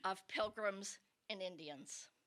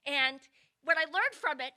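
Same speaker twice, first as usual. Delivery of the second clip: ordinary delivery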